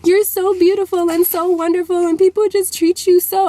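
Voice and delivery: tearful pleading. Retold or imitated. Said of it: "She's crying".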